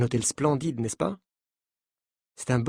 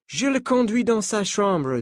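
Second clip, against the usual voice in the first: put-on higher French with a light American accent; 6 semitones higher than usual. Coach telling the journalists not to panic, in a light American accent. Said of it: "dit-il avec un accent américain".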